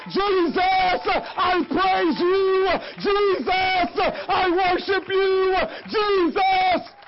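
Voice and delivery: shouted praise, loud and slow, each name held long. Shown as a demonstration. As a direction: call out Jesus's name loudly and slowly, like a worship leader. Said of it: "begin to say".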